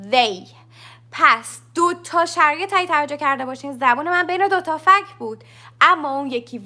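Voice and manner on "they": they starting on a humming TH; they with throat vibration on its first sound; voiced TH. Shown as a demonstration. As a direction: buzz the TH, then let "they" drop out.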